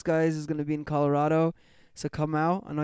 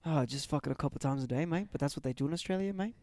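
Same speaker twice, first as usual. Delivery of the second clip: mock Aussie bloke, Australian accent; hammed-up Australian accent, tossing in mate; light put-on Australian accent; 5 dB quieter than usual. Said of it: "this is how fucking people in Australia talk".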